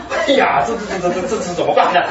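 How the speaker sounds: stammering, lightly panicked dismay; comic helpless fretting; mock fluster. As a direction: stutter as if at a loss what to do. Acted dismay at deaf, blocked ears.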